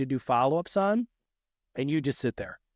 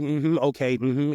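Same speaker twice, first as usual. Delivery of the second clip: fake listening; slower than usual. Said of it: "fake listening".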